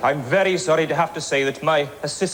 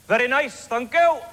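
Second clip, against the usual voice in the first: higher chirpy dummy voice; polite biro voice; 6 semitones higher than usual. Acted. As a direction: answer brightly as a polite pen. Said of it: "Nice, polite biro".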